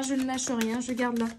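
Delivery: hiccups breaking the words; hiccuping. Real, not acted. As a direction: talk through hiccups. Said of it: "pardon, j'ai le hoquet".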